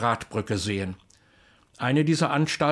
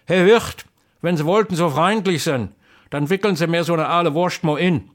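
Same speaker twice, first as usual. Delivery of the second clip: louder, higher call across the inn; calling the innkeeper; 3 semitones higher, 5 dB louder than usual. Acted. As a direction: hail the innkeeper politely.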